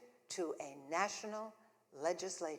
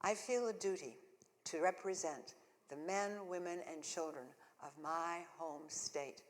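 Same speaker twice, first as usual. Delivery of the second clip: formal speech. Acted. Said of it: "I tell my audience".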